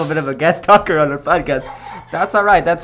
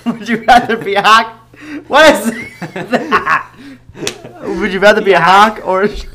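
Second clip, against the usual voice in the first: laughing; 3 semitones higher, 4 dB louder than usual. Real, not acted. Trying to ask through laughter.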